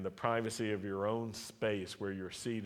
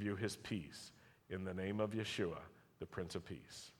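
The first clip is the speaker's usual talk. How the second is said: priestly blessing. Acted. Preacher blesses the standing congregation, measured and solemn.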